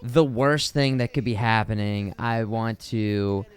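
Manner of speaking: slow, dragged-out inner groan of dread; mortified inner voice. Retold or imitated. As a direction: drag it out like enduring family embarrassment. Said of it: "you're just like".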